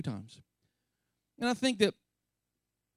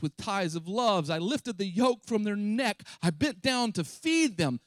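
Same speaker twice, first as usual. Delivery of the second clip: voicing God; 4 semitones higher than usual. Preacher voicing God recalling his love, pained and raised. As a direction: pour it out like a hurt parent, slowing at the end.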